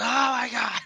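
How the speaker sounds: mock shocked gasp. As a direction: act out being aghast at the video. Retold reaction to the gory video.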